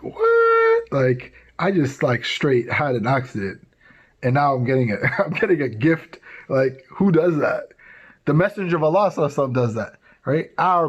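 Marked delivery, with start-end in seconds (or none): 0.0-7.7 put-on amazed girl. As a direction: sound floored by the gift. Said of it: "And she's like".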